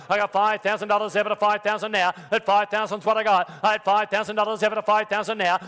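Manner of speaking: rhythmic auction bid calling; auctioneer. Real, not acted. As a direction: rattle off the bids like an auctioneer.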